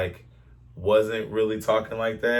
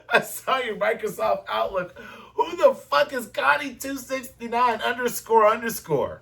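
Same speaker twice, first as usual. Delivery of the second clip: high, fast hammed-up accusing girlfriend voice; mock jealous girlfriend; 9 semitones higher than usual. Mocking a jealous girlfriend who found his emails, high and shrill-free squeaky.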